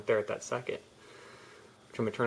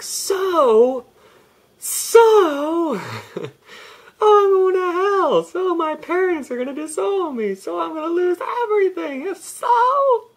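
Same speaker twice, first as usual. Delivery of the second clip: mock hysterical shriek, much higher and louder; mocking panicked self; 12 dB louder than usual. Mocking his own coming-out panic, hammed-up high crying shriek. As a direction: ham up a panicked freak-out, crying and squealing. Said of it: "And I was like".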